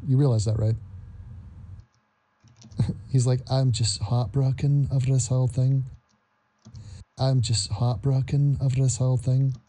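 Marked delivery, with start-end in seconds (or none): 3.5-9.6 a mock heartbroken Scottish lilt; bad Scottish accent. Mocking Francis in a terrible Scottish accent. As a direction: put on a failed Scottish accent, lightly. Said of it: "Terrible accent".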